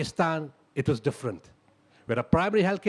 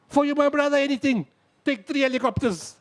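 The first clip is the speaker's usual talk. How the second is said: generous airman; 8 semitones higher, 3 dB louder than usual. Retold or imitated. Airman gladly offering helicopters.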